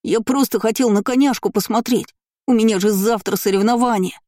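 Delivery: high-pitched whining excuse; sobbing child. A narrator's reading. Boy excuses himself to mother, sobbing. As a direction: plead innocence in a whimpery boy voice. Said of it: "всхлипывал поганец".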